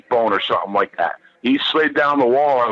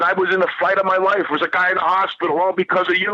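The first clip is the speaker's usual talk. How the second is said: higher, fast retold scream; mild mock scream at the roommate; screaming at him; 4 semitones higher, faster than usual. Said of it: "I was screaming at him in the room".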